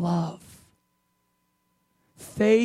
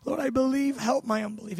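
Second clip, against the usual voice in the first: acted tearful plea; 3 semitones higher than usual. The father begging Jesus for help, acted tearful. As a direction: plead as if close to tears. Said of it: "He's crying now".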